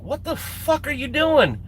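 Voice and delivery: high, slow incredulous demand; retold outrage. Teller surfaces after being jumped on, retold outrage. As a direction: stretch out the indignant question, pitched high.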